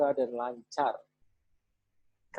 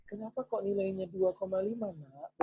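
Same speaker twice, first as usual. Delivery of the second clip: put-on higher, soft and sweet, as if to a little child; very gentle tone; 6 semitones higher, 7 dB quieter than usual. Shown as a demonstration. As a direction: ask it as tenderly as you can. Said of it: "Walaupun nadanya halus banget".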